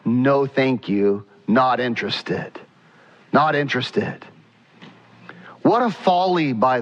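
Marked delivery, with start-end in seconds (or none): 0.1-4.2 a lightly voiced God declining the offering; a hint of God's firm dismissal; God's calm refusal. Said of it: "And God says".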